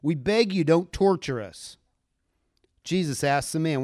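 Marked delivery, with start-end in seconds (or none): 0.0-1.8 demons shouting. Acted. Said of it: "they shouted".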